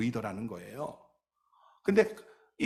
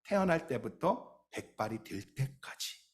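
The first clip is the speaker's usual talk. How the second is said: slow answer; 4 dB quieter than usual. Shown as a demonstration. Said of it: "언제부터 언제까지 ... 말씀하고 있어요?".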